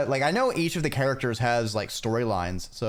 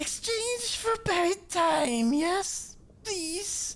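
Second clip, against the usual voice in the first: put-on wheezing, throaty, very high voice; 3 dB quieter than usual. Voicing a shrouded cloaked figure offering relics for coins, in a throaty, high-pitched wheeze. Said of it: "its voice throaty and high-pitched".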